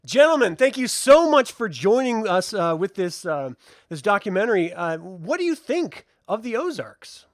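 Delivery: bright presenter greeting the guests; documentary host. Acted.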